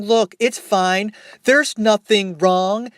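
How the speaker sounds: slow, taunting sing-song; mocking. Guests taunt Mother from the counter, slow mockery. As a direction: drawl it out to mock her. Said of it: "mocking her, saying".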